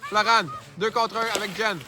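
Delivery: brisk hockey play-by-play; play-by-play commentary. Acted. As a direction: call the action as it happens. Hosts play-by-play of the game. (commentaire sportif en direct)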